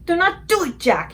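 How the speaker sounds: high, loud frightened screech. A narrator's reading. Giant screeching at Jack in his nightmare, high plea. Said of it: "he screeched".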